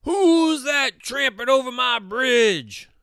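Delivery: loud, high roared challenge; troll roar. A narrator's reading. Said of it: "roared the troll".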